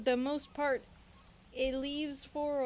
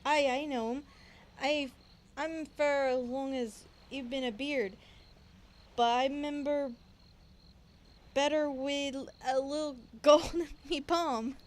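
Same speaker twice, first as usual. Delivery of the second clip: put-on pirate accent; 3 dB louder than usual. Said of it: "I'm trying to do it in the accent".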